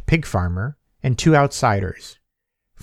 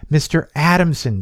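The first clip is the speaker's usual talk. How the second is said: calling out; 5 semitones higher than usual. Acted. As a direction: call his name across the doorway. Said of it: "Zack called out".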